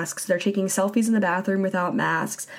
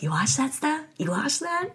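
high, incredulous mock question; lightly imitating Kelly's disbelief; 7 semitones higher, 4 dB quieter than usual. A hint of Kelly quizzing her castmate, high and doubtful. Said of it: "And Kelly's like".

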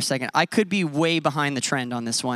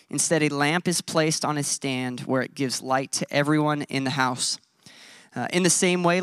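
scripture reading. Acted. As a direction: read the verses out deliberately to the room. Reads scripture aloud to congregation.

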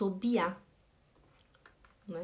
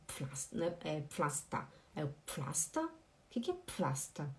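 confused mumble; 6 semitones lower, 10 dB quieter than usual. Retold or imitated. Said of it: "eu fiquei assim".

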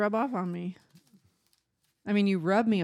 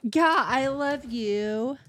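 drawn-out tender; 3 semitones higher, much slower than usual. Acted. Slow affectionate reply.

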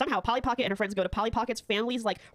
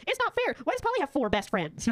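put-on whiny mean girl; 5 semitones higher than usual. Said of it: "She goes".

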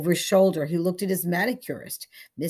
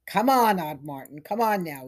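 calling down loudly into the gutter; shouting; 5 dB louder than usual. Acted. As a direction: shout at the man lying there. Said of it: "he shouted".

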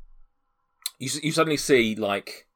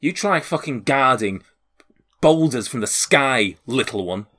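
slow, emphatic sharp comeback; a sharp, measured guard's rebuke; sharp retort; 3 semitones higher, slower than usual. Acted. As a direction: round on them slowly, with mild bite. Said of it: "turns sharply to Dabov and says".

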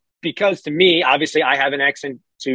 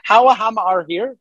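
questioning, higher-pitched stab at Geordie; attempted Geordie accent; 4 semitones higher than usual. Shown as a demonstration. American learner attempting the hammer line in Geordie accent. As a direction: copy Geordie unsurely, ending on a rise.

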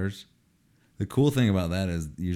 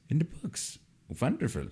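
mock echo; 8 semitones higher, 5 dB quieter than usual. Echoing partner in put-on voice.

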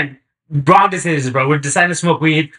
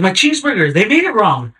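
stoned, puzzled friend; 8 semitones higher than usual. Retold or imitated. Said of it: "He's like".

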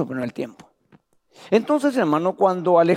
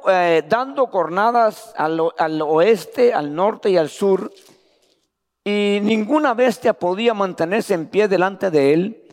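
lectura bíblica; 3 semitones higher than usual. Acted. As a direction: proclaim the verses to the church. Reading scripture to congregation. (lectura solemne de la Escritura en voz alzada)

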